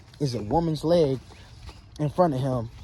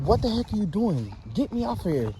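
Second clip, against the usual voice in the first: voicing the trapped man; 5 semitones higher than usual. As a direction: beg to be let off the mattress. Trapped man pleading with girl.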